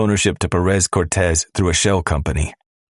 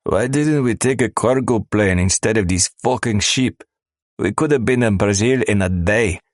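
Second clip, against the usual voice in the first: higher, annoyed complaining smuggler; griping; 5 semitones higher than usual. Acted. Smuggler griping about the ship.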